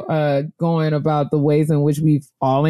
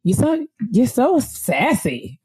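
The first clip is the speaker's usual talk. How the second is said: slow, higher teasing singsong; mock sassy drawl; 6 semitones higher, slower than usual. Quoting people who call her sassy, slow teasing singsong. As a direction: tease her like she's being sassy.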